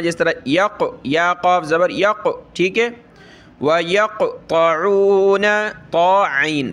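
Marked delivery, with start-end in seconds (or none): 3.6-5.4 वयक़्तऊन with a jolting bounce on क़; qalqala bounce. Shown as a demonstration. Teacher demonstrating qalqala to students, jolting bounce. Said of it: "झटके की तरह पढ़ना है".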